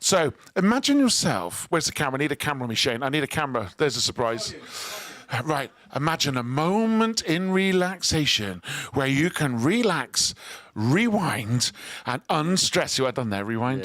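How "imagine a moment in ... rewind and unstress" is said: smooth TV sales pitch; radio host doing a mock shopping channel pitch. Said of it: "Shopping Channel style pitch".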